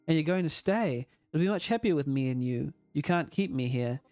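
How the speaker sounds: lightly acted plea to stay; a touch of desperate clinging, read in character; pleading game character. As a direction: beg a friend not to leave, understated. Game character begs Rain to stay.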